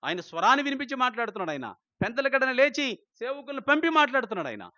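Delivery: rapid pulpit crescendo; fast fiery preaching. Acted. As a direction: drive the list home, picking up speed. Fast rising preaching list.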